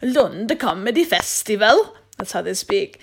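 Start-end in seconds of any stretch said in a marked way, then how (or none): 0.0-1.9 "Lund Comedy Festival" said slowly with a light Swedish lilt; mock Swedish accent. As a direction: tease the Swedes with a slow, sing-song Swedish accent. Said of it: "or as they say in Swedish".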